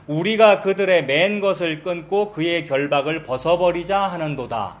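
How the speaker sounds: slow, measured reading of the verse; scripture reading. Shown as a demonstration. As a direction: read the verse aloud deliberately. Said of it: "삼 절".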